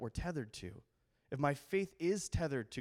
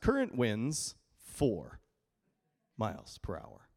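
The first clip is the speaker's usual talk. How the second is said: mock weather app; 4 semitones lower, slower than usual.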